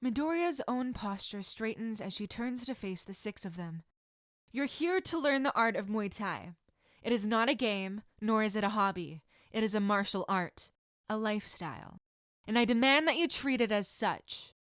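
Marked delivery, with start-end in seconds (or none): 4.5-14.5 a firm, slightly louder stern teacher voice; stern sensei. Acted. Sensei addressing new students, firm and stern. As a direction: introduce yourself with authority.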